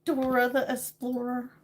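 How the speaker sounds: lightly put-on Spanish-cartoon accent; Dora the Explorer accent. Streamer trying the accent of a cartoon explorer, lightly accented. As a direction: say it with a hint of Dora's accent. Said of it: "Dora the Explorer, uh, what do you call it? Uh, accent".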